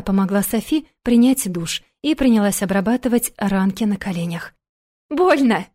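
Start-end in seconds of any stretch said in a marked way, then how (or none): 5.1-5.7 a mock squeal of Больно, higher and louder. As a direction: squeal Больно like a child in pain. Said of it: "завизжала она".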